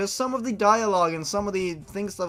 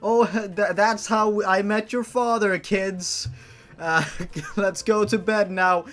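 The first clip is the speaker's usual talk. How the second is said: mock narrator parent; 4 semitones higher, 3 dB louder than usual. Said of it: "it's like".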